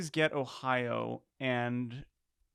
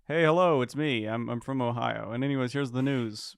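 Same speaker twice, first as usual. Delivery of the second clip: put-on Ohio accent; 2 semitones lower than usual. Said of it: "you have a perfect Ohio accent".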